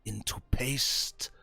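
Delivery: a hint of a cold leader who holds all the cards; lightly voiced warlord bargaining; menacing warlord.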